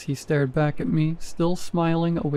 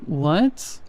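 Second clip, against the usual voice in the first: a slightly higher, stretched "What?" in two syllables; drawn-out high what. Acted. Fake husband calls back from downstairs, stretched and high. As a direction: pull the word out long and a bit high. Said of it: "more high-pitched and drawn out".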